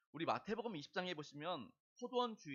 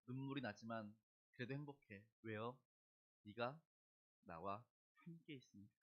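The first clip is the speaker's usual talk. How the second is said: soft lyric; 5 semitones lower, 5 dB quieter than usual. Retold or imitated. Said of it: "이 노래 마지막 가사가 그거죠".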